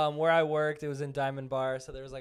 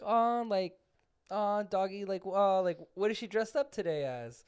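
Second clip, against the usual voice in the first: higher voice fussing over a doggy; lightly acted coworker admiring a dog; imitated cooing; 4 semitones higher than usual. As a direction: coo lightly at a dog, pitched up.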